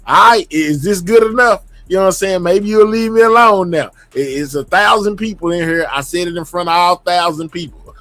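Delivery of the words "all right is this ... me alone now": louder, half-joking exasperation; exasperated. Real, not acted. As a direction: raise the voice, fed up but teasing. Mock apology to a viewer.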